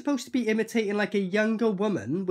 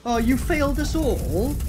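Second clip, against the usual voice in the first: higher, drawn-out incredulous repeat; mocking echo; 4 semitones higher, 3 dB louder than usual. Viewer mocking the film villain's line, slow incredulous echo. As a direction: throw it back slowly in mock disbelief.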